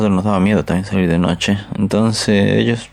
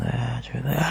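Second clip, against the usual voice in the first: whisper; 3 semitones higher, 10 dB quieter than usual. Retold or imitated. Ghost voice calling from below.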